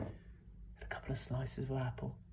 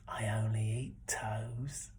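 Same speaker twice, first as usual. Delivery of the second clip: slow, whispered menace; creepy whisper; 4 semitones lower, 4 dB louder, much slower than usual. Acted. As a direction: deliver the horror slowly. Creepy old fella's reveal.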